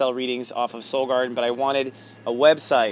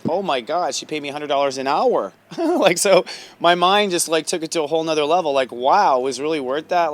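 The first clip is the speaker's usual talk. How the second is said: retold astonishment, higher and louder as it builds; amazed reaction; 3 semitones higher, 6 dB louder than usual. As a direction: relive being amazed, with a laugh. Retelling his astonishment at the pay.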